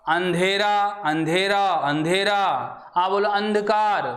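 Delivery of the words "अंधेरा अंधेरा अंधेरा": अंधेरा repeated with the sound through nose and mouth; nasal andhera demo. Shown as a demonstration. (अंधेरा नाक और मुख दोनों से)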